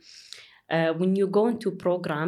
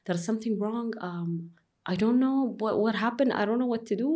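retold panic; 4 semitones higher, faster than usual. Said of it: "but I'm panicking".

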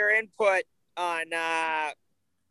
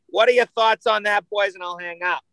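lightly put-on Boston accent; a hint of playful Boston accent. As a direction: sign off like a Boston caller, accent on. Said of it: "That was my best Boston accent".

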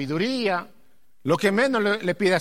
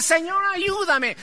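high, loud, drawn-out plea; clamoring to God; 13 semitones higher, 5 dB louder, slower than usual. Retold or imitated. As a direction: call out to the Lord in desperation. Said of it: "a clamarle". (clamor alto y desesperado)

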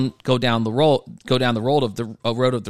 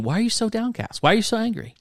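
voicing God questioning Cain; 10 semitones higher, faster than usual. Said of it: "He goes to Cain".

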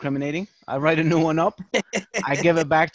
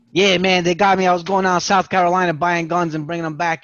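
louder, boastful inmate breaking the silence; loud inmate brag; 6 dB louder than usual. Retold or imitated. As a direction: announce it proudly to the whole cell. Inmate bragging aloud in cell.

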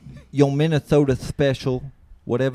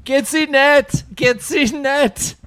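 put-on high, loud comic German accent; slow goofy German accent, pitched up; 13 semitones higher, 5 dB louder, slower than usual. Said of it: "the speaker's German accent".

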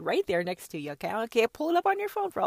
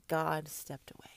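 1 hushed whisper; 5 semitones lower, 9 dB quieter than usual. Real, not acted. Whispered line then a high repeat.

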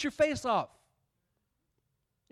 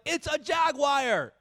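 incredulous rant; 6 semitones higher than usual. Retold or imitated. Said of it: "And I'm like".

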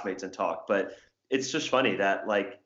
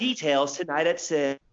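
slow anchor sign-off; mock newscaster cadence; hokey news anchor; 5 semitones higher, slower than usual. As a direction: drag out the teaser like a newscaster. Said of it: "talk like this".

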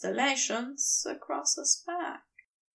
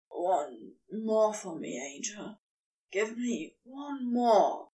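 pleading Crowley; 4 semitones lower than usual. Acted. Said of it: "Crowley pleads".

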